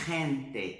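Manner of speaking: "gente" said slowly, felt in the throat; throaty demo. Shown as a demonstration. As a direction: let "gente" scrape the throat. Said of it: "você vai sentir arranhando aqui".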